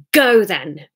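Sarah projecting through tears; projected. Acted. Sarah calling out to Hamish, projecting. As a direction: throw it out loud, tearful. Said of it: "projected Sarah".

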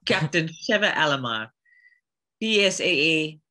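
African-accented captain introducing herself. Shown as a demonstration. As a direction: give the title in an African accent. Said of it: "can you do a full-on African accent".

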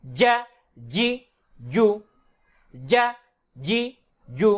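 "যা জি জু" with a hard, firm j; strong firm jim. Shown as a demonstration. Teacher demonstrates jim with strong sound, firm pronunciation. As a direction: press firmly into each "যা", "জি", "জু". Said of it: "শক্ত এবং মজবুত আওয়াজে".

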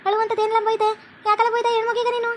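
indignant, high-voiced questioning; scolding parent. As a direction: take your son to task. Parent scolds son over crying wife.

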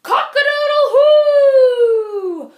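high loud slow crowing shout; proud shout. Acted. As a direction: crow it out with a swagger.

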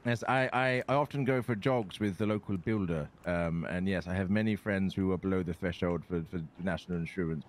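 lightly voiced posh politician, stammering; a hint of a flustered Tory MP. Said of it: "Do a Tory voice".

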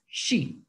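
Shi with SH, tongue pulled back; tongue further back. Shown as a demonstration. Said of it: "La lengua tiene que estar más atrás". ("Shi" con la lengua más atrás)

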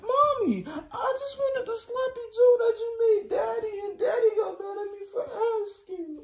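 put-on whiny kid. Kid whining to mom.

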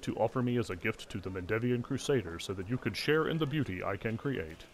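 choppy robotic golem voice; stiff, machine-like recital; clockwork automaton. Acted. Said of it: "staccato automaton voice".

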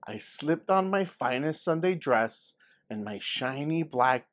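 animated folksy grandmother recalling; lively grandma storyteller. Acted. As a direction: spin the tale like a proud old grandma. Grandma tells her childhood story.

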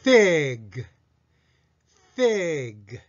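フィッグ as English "fig" with a long f and vowel; English-style fig. Shown as a demonstration. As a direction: stretch フィッグ in one falling syllable. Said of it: "練習問題をやってみましょう".

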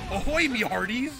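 pirate voice. Retold or imitated. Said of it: "the subtitle is like".

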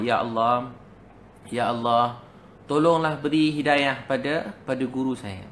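imploring prayer with drawn-out calls; pleading prayer. Retold or imitated. Student asking God to guide the teacher, pleading prayer. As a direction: imitate a student begging God, unhurried. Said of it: "Siang malam doa".

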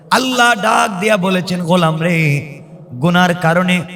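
usual speaking voice

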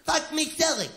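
high mock scream; hammed-up high yell; retold scream. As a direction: shriek it like the woman in bed. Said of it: "she's screaming".

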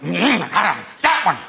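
put-on halting old-man mumble; a light, hesitant old-man mumble; doddering McCain. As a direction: fumble for the words. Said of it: "McCain started to get".

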